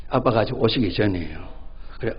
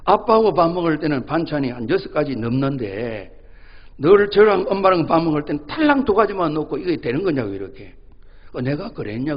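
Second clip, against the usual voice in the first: put-on complaining child; 3 semitones higher, 4 dB louder than usual. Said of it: "이 꼬마가 그러는 거예요".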